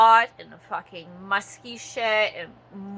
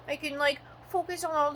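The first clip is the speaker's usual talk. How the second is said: mock dreamy self; 6 semitones higher, 8 dB quieter, faster than usual. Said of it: "I'm like".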